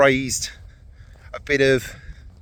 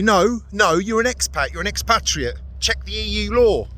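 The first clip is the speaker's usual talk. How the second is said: imagined critic; 6 semitones higher than usual. Pretend. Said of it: "some out there that are gonna say".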